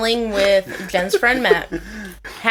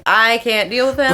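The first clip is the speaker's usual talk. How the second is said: fed-up declaration at talking volume; emphatic exasperation. Retold or imitated. Girlfriend complaining that he's drunk, openly exasperated. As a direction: state it firmly, fed up.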